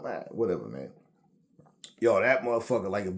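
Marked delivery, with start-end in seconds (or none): 0.3-0.9 low, soft retold brush-off; dismissive brush-off. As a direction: wave the apology away in a low voice.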